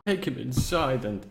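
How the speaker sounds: lightly voiced courteous old host; old necromancer. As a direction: ask politely as a doddery necromancer. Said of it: "every time you talk as this necromancer".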